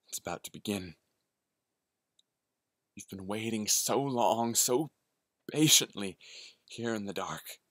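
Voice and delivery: eerie voice waiting in the dark; lurking hungry predator. Acted. Lurking hungry presence speaks.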